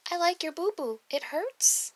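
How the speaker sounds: put-on high, sweet child voice; little girl voice. Little girl to teacher about her boo-boo, high voice. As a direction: coo it like a small girl.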